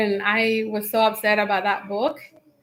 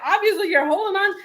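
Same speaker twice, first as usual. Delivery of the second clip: quick, higher mock accusation; exploding; 6 semitones higher, faster than usual. Wife accuses husband of holding on, retold exploding. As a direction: throw it at him fast, half amused. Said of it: "I kinda just exploded".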